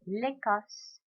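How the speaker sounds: "L'Écosse" with the voice lifting on the é. Shown as a demonstration. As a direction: raise the voice on the é of "L'Écosse". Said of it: "which means you raise your voice".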